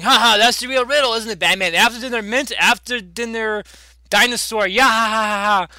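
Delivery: gloating villain taunt with fake laughs; mocking. Handcuffed Riddler mocking Batman, playful villain taunt. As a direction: taunt with a hammed-up "ha ha". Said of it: "mocking Batman".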